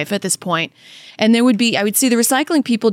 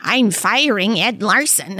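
Michael Moore impression; slower than usual. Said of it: "that was pretty close".

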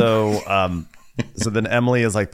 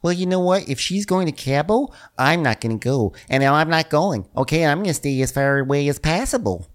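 Nicole; 5 semitones higher than usual. Retold or imitated. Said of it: "And Nicole's like".

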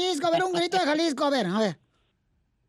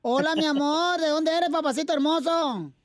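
Chela Prieto voice; 3 semitones higher than usual. Acted.

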